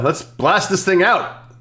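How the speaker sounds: normal talking voice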